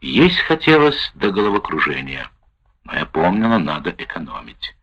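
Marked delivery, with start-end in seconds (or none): none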